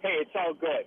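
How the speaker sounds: talking on the phone from a truck cab. Real, not acted. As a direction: road noise around a call from the cab. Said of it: "I'm sitting here in a truck as I'm speaking".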